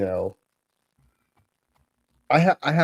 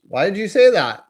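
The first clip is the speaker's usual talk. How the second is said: high, louder incredulous question; shocked parent; 8 semitones higher, 6 dB louder than usual. Retold or imitated. Wife questions swearing daughter, high shocked voice. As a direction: imitate a startled parent demanding a reason.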